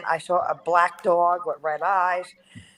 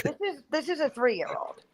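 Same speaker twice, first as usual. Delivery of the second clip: high laughing, trailing off softer; 8 semitones higher, 7 dB quieter than usual. Real, not acted. Mom laughing at toddler's claim.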